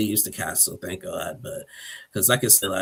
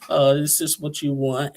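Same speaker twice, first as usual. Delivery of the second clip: mock lovey; 5 semitones higher than usual. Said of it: "all in a lovey mood".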